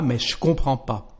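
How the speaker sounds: je comprends pas without ne; relaxed everyday French; casual spoken French. Shown as a demonstration. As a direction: drop the ne naturally. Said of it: "Excusez-moi".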